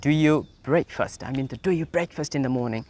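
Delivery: slow model question. Shown as a demonstration. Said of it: "পাঁচ নম্বর যে কোয়েশ্চেনটার ক্ষেত্রে".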